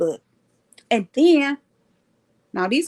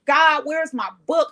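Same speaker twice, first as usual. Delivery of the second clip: higher, slow, drawn-out plea; mock tearful plea; 5 semitones higher than usual. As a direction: plead to God, playing up the distress. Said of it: "I'm crying".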